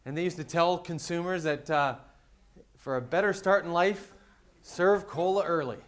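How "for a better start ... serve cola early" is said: louder, higher retro ad announcer voice; a hint of an old-time ad announcer; mock vintage ad read. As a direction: sell it like an old Coca-Cola ad. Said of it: "Coca-Cola used to run this ad".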